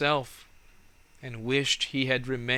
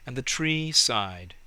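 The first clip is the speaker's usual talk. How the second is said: ordinary delivery, nothing marked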